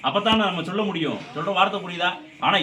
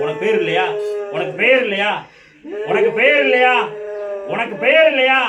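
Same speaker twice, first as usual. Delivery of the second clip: mounting demand; 2 semitones higher, 6 dB louder than usual. Real, not acted. Medium demands the spirit's name, building to a shout. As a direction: repeat it harder each time.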